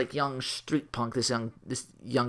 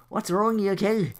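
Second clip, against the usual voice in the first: Terry; 7 semitones higher than usual. Acted. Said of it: "saying the latter portion as Terry".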